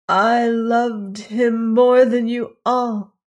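high, slow anguished cry; trying to speak through grief. A narrator's reading. Each word wrenched out loud and slow. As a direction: peahen by the dead prince, crying out slowly. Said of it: "she tried to say".

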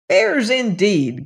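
a shrill unseen dwarf; lightly shrill creature voice. Acted. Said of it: "cried a shrill voice".

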